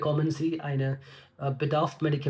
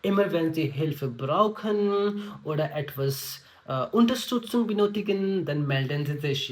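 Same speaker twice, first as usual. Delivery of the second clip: reassuring tone; much slower than usual. Shown as a demonstration. Nurse promising help to a patient, slow and friendly. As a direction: make the patient feel safe with you. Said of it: "इस type से थोड़ा tone को भी हमें".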